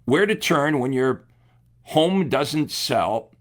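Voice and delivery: headline read out slowly, word by word. Shown as a demonstration. Coach slowly reading the ad headline to agents, slow and deliberate. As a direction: draw out home doesn't sell slowly. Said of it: "But check this one out".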